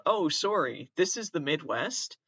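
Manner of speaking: lightly put-on Midwestern accent; a half-hearted Midwestern apology voice; bad Midwestern accent. Podcaster mocks small-town Midwest folk, in a bad Midwestern accent. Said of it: "It was also my worst Midwestern".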